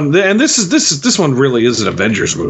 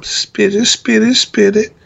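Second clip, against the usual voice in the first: high, slow coaxing mom; mother bird voice; 7 semitones higher, slower than usual. Pretend. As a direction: coo it like feeding a chick. Mother bird feeding baby.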